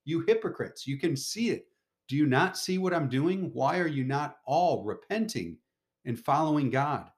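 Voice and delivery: high, pressing rebuke to the crowd; emphatic Jesus. Acted. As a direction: drive each question home. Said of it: "Jesus there emphatically saying this".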